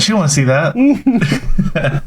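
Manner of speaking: put-on grumpy old lady voice. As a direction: drawl it like a fussy old great grandma. Mocking the great grandmother.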